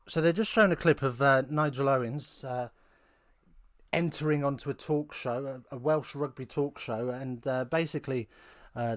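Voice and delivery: normal talking voice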